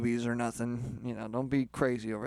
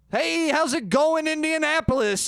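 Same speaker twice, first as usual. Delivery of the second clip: rock frontman greeting the crowd; 13 semitones higher, 5 dB louder than usual. Shown as a demonstration. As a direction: yell to a stadium crowd. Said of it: "I'm gonna do an example".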